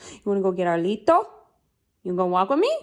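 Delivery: playful invitation, rising at the end; sing-song asking to a pet; coaxing pet talk. Real, not acted. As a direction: coax a dog with a lilting question. Asking the dog on a walk.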